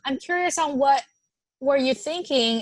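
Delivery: gentle curious asking. Shown as a demonstration. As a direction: sound genuinely interested, not blaming. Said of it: "it also depends on the tone you use".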